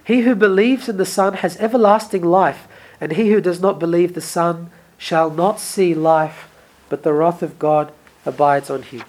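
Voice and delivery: measured, solemn reading of the gospel; scripture reading. Acted. Preacher reading scripture to the congregation, solemn and measured. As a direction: read the verses aloud to the congregation. Reads the gospel passage aloud.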